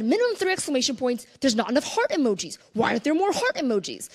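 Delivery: hammed-up emphatic tweet boss; bossy excited. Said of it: "that's the voice that comes out".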